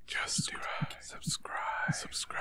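whisper yelling. Pretend. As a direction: hiss it like a shout. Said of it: "Why are we whispering?".

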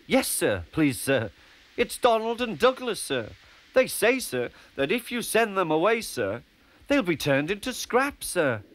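high, anxious small-engine voice; Percy pleading nervously to the Fat Controller, high and anxious; nervous little engine. Acted. Percy's voice, held.

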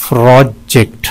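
"प्रोजेक्ट" in two short separate beats; syllable breakdown. Shown as a demonstration. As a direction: split "प्रोजेक्ट" cleanly in two. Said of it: "इसमें दो syllable हैं". ("प्रोजेक्ट" दो छोटे हिस्सों में)

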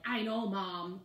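irritated retort at mom; snapping. Retold or imitated. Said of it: "snap at her and be like".

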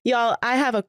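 hoarse from allergies; scratchy, allergy-worn voice. Real, not acted. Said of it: "and I am suffering".

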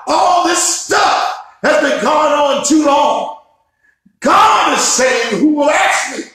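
rising, shouted sermon cadence with hard stresses; full-force preaching. Real, not acted. Pastor stirring up his congregation, full-force preaching. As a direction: preach it full out and lift the room. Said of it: "Man, I feel myself preaching".

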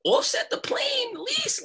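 high, breathy whisper of amazement; a stunned thought breathed out; whispered inner thought. Retold or imitated. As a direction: whisper it in awe, barely voiced. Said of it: "I was like".

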